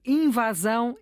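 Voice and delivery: "invasão" with an open A in "va"; careful "invasão", A wide open. Shown as a demonstration. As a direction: say "invasão" with a clear "ah" in the middle. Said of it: "é com A aberto".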